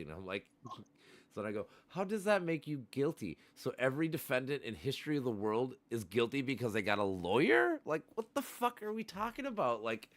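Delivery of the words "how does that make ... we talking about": high, disbelieving outrage rising to the end; indignant retort. Retold or imitated. Arguing with his buddy about lawyers, high indignant disbelief. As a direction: scoff at his logic.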